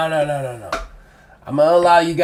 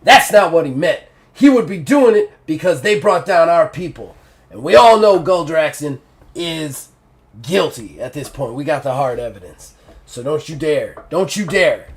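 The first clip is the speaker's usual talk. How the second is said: angry. Acted. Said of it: "looks at you angrily and he goes".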